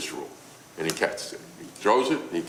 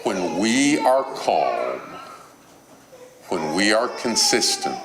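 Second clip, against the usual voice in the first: calm, deliberate list. Real, not acted. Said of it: "three things".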